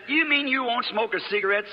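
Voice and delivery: put-on high-pitched girlish taunt; taunting challenge. Girl taunts him about smoking.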